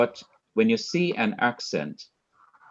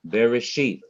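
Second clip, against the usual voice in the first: Bereshith with a slowed, emphasized final syllable; slow down into the end of Bereshith; stress on last syllable. Shown as a demonstration. Teacher applying the accent rule, last syllable stressed. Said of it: "I must slow down and I must emphasize".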